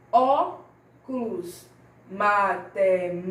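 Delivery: slow teaching split of Caju, Janela, História, Óculos, Matemática, stressed syllable lifted. Shown as a demonstration. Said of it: "com mais intensidade".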